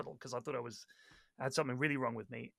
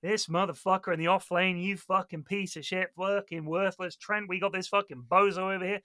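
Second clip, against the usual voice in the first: mock rage; 3 semitones higher than usual. Retelling Slacks flaming a teammate.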